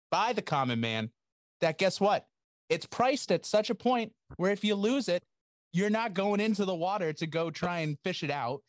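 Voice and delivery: high, pumped-up hype intro; hype man. Acted. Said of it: "my own personal hype man".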